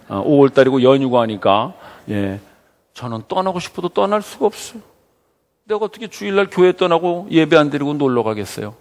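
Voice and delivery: ordinary delivery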